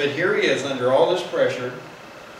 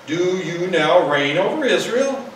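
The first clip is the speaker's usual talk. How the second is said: a little steel; 3 semitones higher, 5 dB louder than usual. Retold or imitated. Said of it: "There's a little steel in the voice".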